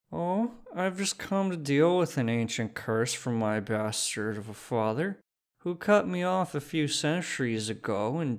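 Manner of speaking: loose tipsy rant; half drunk. Acted. Drunk Phineas confessing his curse, half drunk. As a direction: let it spill out, half drunk. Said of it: "His impulse control had gone straight to hell".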